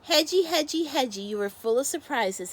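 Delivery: loud, high delighted call; joyful cry. Acted. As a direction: call out her friend's name with joy. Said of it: "Henny cried".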